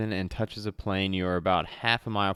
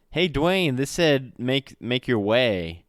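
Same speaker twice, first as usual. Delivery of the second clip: playful callout; 5 semitones higher, 5 dB louder, slower than usual. Real, not acted. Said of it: "Me and you always say that".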